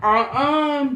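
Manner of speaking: high, loud retold uh-uh; emphatic refusal.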